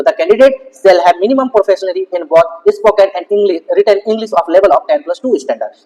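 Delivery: reading the English clause out word by word, slowly; slow reading aloud. Real, not acted. Vlogger reads the eligibility rule to viewers, very slowly. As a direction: read the rule slowly and carefully off the screen.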